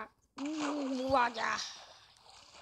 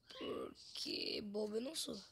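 whispering; 2 semitones lower, 6 dB quieter than usual. Real, not acted. Whispered aside.

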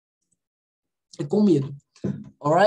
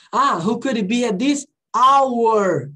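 slow model reading; 2 semitones higher, 4 dB louder, slower than usual. Shown as a demonstration. Teacher reading the sentence slowly aloud to students. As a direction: read the line slowly and clearly. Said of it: "É assim que eu pronuncio".

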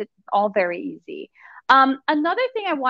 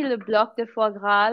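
French accent. Real, not acted. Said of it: "I love your French accent".

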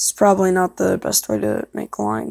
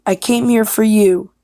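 louder, lightly dramatic read; audition line; 2 semitones higher, 5 dB louder than usual. Acted. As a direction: declare it firmly, lightly acted. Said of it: "I'll be doing, like, alternatives".

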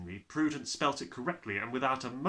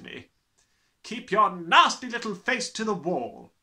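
slow bellowing; 10 semitones higher, 11 dB louder than usual. Acted. Trunchbull ordering boy.

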